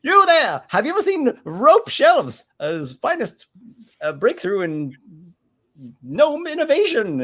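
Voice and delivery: high loud hawker cry; merchant calling out. Acted. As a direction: shout out to a passerby. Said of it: "goes to this other person".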